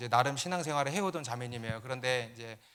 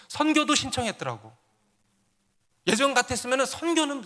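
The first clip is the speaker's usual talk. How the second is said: raised, insistent testimony; forceful preaching; 4 semitones higher, 6 dB louder than usual. Real, not acted. Pastor tells congregation of a transformed cell member, forceful preaching. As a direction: hammer out each change like a list of victories.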